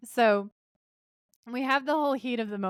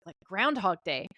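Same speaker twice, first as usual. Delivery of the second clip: lightly puzzled question in the usual voice; querying. Retold or imitated. Dean asks Sam about the time loop, querying. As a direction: toss it out as a quick query.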